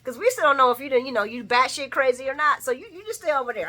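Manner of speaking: fast, sassy scolding; a light mock scolding of an old man; bossy sass. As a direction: shoo him back to his corner. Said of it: "I'm looking at him too like".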